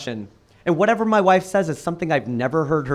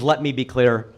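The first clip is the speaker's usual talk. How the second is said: Obama catchphrase; 6 semitones lower than usual. Retold or imitated. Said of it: "he would always use that phrase".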